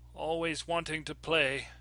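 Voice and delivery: soft and hushed; said softly. A narrator's reading. Georgina murmuring softly to the children coming for her. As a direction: let it drift out gently, almost to herself. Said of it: "Georgina said softly".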